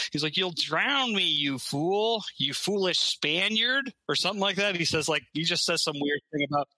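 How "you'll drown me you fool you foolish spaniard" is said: high-pitched, drawn-out mock Scottish accent; terrible Scottish accent. A movie immortal scolding the Spaniard on a boat, bad Scottish accent. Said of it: "Sean Connery, but he's like".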